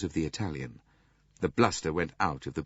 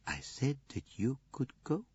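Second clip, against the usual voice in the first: Poirot, cool and firm; 6 semitones higher, 7 dB quieter than usual. Acted. Poirot dismissing the suspect.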